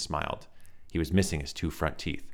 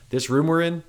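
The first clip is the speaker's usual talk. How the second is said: high reedy explaining; calm strange scientist; light reedy Gideon; 11 semitones higher, 7 dB louder than usual. A narrator's reading. Gideon explaining the room, high reedy voice. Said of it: "light, reedy voice".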